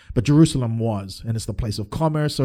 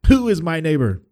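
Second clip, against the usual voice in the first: hammed-up BBC English for prideful people; high, prideful British broadcaster accent; 5 semitones higher, 5 dB louder than usual. Teacher of the law challenging Jesus, mock-pompous BBC accent. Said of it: "my B B C accent for prideful people".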